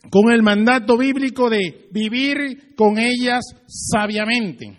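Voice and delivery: preacher at full force, slow; full-force preaching. Acted. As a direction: drive the point home to the congregation.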